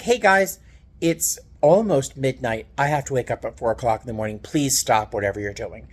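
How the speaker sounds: polite, controlled cabin-crew courtesy; flight attendant voice. Retold or imitated. Speaker telling night workers to stop, in her flight attendant voice. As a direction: keep it civil like addressing passengers. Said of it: "I used my flight attendant voice".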